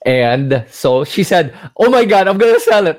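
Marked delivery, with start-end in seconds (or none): 1.8-3.0 high, mildly breathless-with-news imitation; retold excitement. Friend reacting to a huge windfall, in acted excitement. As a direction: imitate a friend bursting to cash out. Acts friend wanting to cash out.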